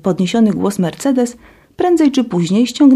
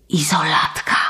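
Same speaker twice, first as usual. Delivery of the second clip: excited; 4 dB quieter than usual. Acted. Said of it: "wyduszała podekscytowana".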